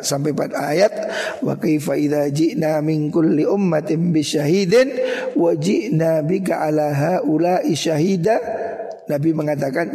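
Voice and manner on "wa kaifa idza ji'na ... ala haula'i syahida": slow, measured chanted verse; Quran recitation. Acted. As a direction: recite the verse with reverence, slowly.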